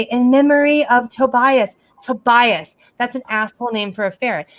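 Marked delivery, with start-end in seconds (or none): 0.0-2.8 mock solemn. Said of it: "And I say".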